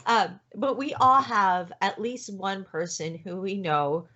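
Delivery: holding back tears as she talks; teary. Real, not acted. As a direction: voice cracking, close to tears. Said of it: "hear it in her voice as she's cracking and crying".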